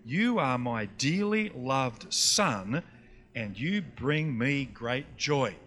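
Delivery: slow, low, solemn voice from heaven. Acted. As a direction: speak slowly as God to a Son. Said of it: "a voice from heaven said".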